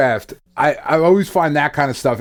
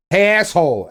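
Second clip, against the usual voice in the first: mild mock yell, raised in pitch; imitated yell; 5 semitones higher than usual. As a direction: call out as if summoning an unruly dog. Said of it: "I just start yelling".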